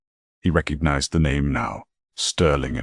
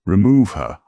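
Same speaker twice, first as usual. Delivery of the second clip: a louder, higher barked command to get the purser off; firm order; 4 semitones higher, 6 dB louder than usual. Acted. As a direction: CEO on the phone orders the purser removed, loud and firm. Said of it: "Arthur ordered".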